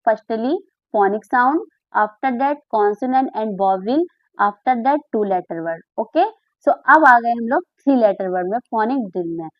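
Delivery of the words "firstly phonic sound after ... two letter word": slow recap. Shown as a demonstration. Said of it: "first step में आपने क्या कराया".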